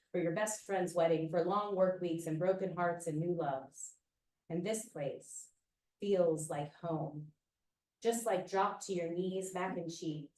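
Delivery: measured, unhurried spoken word delivery; poetry reading. Acted. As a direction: read it like a performance poem. Reads her poem aloud.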